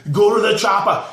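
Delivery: Arnold impression. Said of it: "That's my best Arnold impersonation".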